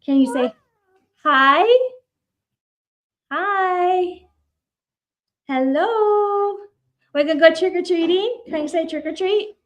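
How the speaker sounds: put-on high baby-talk voice; singsong, high-pitched grandma prompting; coaxing toddler to repeat. Shown as a demonstration. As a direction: model the words for a small child. Getting toddler to repeat words.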